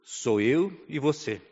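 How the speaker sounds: measured, understated voice of God; gentle, wise voice. Retold or imitated. God reassures a son alone in Africa, gently. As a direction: quote God calmly, leaving long pauses. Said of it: "com a sua voz mansa e sábia".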